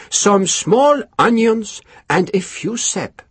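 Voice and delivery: stoic. A narrator's reading. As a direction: refuse to be moved. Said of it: "Durand said stoically".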